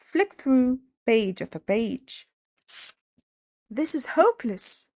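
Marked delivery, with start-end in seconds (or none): 3.7-4.9 wailing. A narrator's reading. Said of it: "he wailed".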